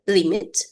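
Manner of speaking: "limit" with the stress on LIM; stress on first syllable. Shown as a demonstration. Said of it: "in the first syllable".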